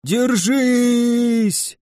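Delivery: high, drawn-out cheer; cheering yell. A narrator's reading. Undead cheer on their side, high drawn-out yell. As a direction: urge them to hold on. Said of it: "вопили отовсюду мертвяки".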